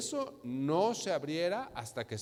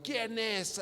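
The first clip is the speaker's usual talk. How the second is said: high-pitched challenge to the crowd; raised, ringing appeal; calling out; 5 semitones higher than usual. Acted. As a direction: call for someone to step forward. Calling out for a worthy one.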